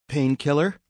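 high female-character voice; bartender Jules. Acted. Bartender offers regular his drink.

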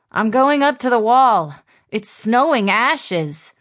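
lightly voiced girl calling out; young woman voice. A narrator's reading. Ella calls to her mother.

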